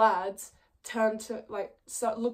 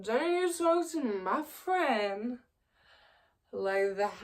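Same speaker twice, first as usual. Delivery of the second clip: slow tough-guy voice; slower than usual. Retold or imitated. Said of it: "And he's like".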